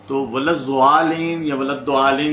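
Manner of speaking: ولد زوالین and ولد دوالین as the two mistaken readings; wrong pronunciations demo. Shown as a demonstration. Teacher repeats the wrong readings for students. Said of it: "یہ تو دونوں غلط ہیں".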